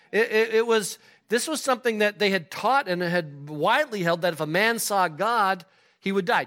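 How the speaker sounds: loud, high preaching voice; fired-up preaching. Real, not acted. Preacher cheering on the ladies, fired-up preaching. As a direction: preach it at full force to the room.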